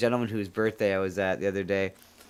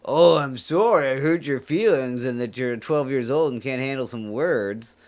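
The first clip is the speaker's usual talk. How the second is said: sarcastic apology; 3 semitones higher, 5 dB louder than usual. Pretend. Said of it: "that becomes another joke".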